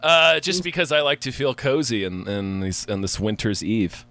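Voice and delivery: muted, congested, stuffy-nosed voice. Real, not acted. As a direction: talk through a blocked nose. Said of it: "I sound really muted and congested".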